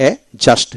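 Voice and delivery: "এ জাস্ট" with no d after the first vowel; silent D. Shown as a demonstration. Teacher showing learners a silent letter, "এ জাস্ট" without D. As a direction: say "এ জাস্ট", D left out. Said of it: "ডি উচ্চারিত হবে না".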